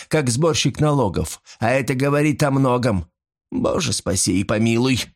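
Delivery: a hint of a cheeky servant woman; lightly voiced old servant. A narrator's reading. Old servant mocks her master's churchgoing, lightly voiced.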